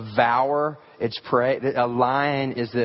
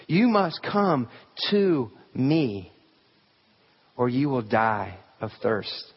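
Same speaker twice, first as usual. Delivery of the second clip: slow, higher solemn voice; voicing Christ; 4 semitones higher, slower than usual. Preacher voicing Christ inviting the congregation, slow and solemn. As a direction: plead slowly as Christ calling. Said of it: "And he says".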